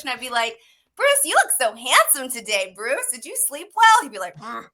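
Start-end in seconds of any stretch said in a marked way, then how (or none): 1.0-4.0 gushing mock compliments, lifting higher and louder; butter him up playfully; teasing flattery. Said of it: "he just needs, like, a little push". 4.4-4.7 soft, noncommittal mock grunt; grumpy grunt. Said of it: "he's, like, a little grumpy".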